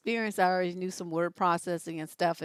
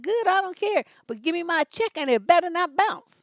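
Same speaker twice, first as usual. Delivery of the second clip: high, loud, sassy talking back to the boss; sassy defiance; 8 semitones higher, 5 dB louder than usual. Retold or imitated. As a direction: tell him off, neck rolling, not backing down. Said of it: "with my neck moving".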